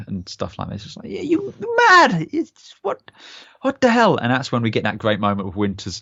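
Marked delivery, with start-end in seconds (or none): 1.1-4.2 much higher, loud squeaky disbelief; incredulous mock reply. Podcaster mocking Dyke's plan, high and incredulous. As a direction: scoff as if the idea is insane.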